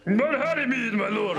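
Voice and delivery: high, loud, hammed-up German accent; a cartoon German servant with poison in mind; overdone German accent. Servant pouring poison, loud mock German accent. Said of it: "Do not do it in a German accent".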